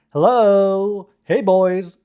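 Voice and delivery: high, loud, drawn-out stereotyped voice; put-on gay voice. Streamer mimicking how some people talk, hammed-up gay voice. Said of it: "trying to do, like, a gay voice".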